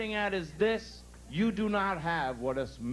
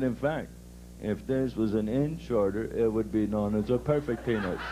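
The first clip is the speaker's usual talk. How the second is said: boy acting like father; 8 semitones lower than usual. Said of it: "They act like the father".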